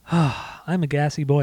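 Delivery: panting after a bike ride; catching breath between words. Real, not acted. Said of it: "out of breath".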